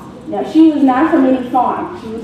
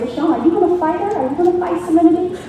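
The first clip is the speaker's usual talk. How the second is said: put-on goading kid; 5 semitones higher, much faster than usual. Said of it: "So Loudmouth Larry said".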